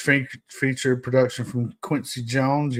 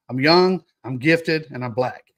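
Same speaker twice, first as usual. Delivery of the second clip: proud affirmation; 5 dB louder than usual. Pretend. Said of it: "I say in the mirror every morning".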